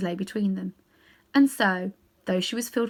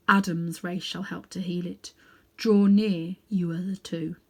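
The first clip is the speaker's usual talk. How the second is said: lightly voiced lion, grave and kind; a hint of a noble lion king; Aslan, majestic lion. Aslan calls Diggory's companions near, gravely. Aslan's speeches, story figure.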